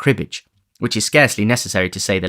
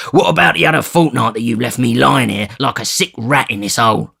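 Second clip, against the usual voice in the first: higher, louder sick man's complaint; angry Sikes; 4 semitones higher, 4 dB louder than usual. Acted. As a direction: rage at him from the sickbed.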